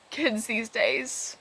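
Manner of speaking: put-on slow, drawn-out old-timer sigh; mock grumble. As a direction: drag it out like a weary elder. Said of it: "I'm like".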